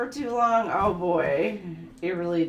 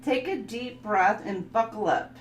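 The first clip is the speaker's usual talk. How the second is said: calm, softer reading of affirmations; 3 dB quieter than usual. Acted. Reading card affirmations to viewers, soft and calm. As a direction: read it like a soothing card reading. Reads tarot style affirmations.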